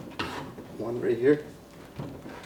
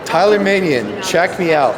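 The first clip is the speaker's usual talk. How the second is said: calling out; 7 semitones higher, 3 dB louder than usual. Real, not acted. Calling out to a friend.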